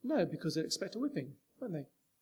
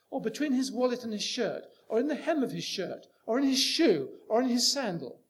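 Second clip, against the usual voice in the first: mock rule list; 6 dB louder than usual.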